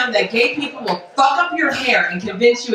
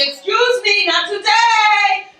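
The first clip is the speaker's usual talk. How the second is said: mock Puerto Rican persona; 5 semitones higher than usual. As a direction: ham up a proud Puerto Rican lady. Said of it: "I'm like".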